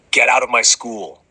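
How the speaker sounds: half-hearted yell; hammed-up full-volume yell; mild mock yell. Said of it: "at full volume".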